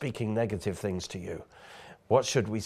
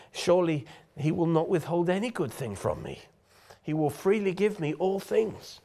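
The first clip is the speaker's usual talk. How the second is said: raised, ringing, defiant questions; bold declaration; 6 semitones higher than usual. Acted. Preacher answers the voice of doubt with a bold declaration. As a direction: proclaim it high and sure, refusing doubt.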